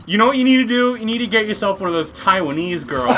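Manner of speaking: laughing quote. Real, not acted. Quoting the stranger's advice, laughing.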